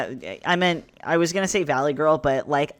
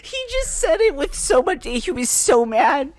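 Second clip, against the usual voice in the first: words squeezed through laughter; laughing while talking; 12 semitones higher, 6 dB louder, slower than usual. Real, not acted. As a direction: talk through giggles. Laughing after a friend's line.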